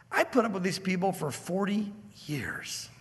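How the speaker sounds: a hushed, weary whisper to God; whispered plea. Acted. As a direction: breathe it like a tired old man confiding. Moses pleads with God.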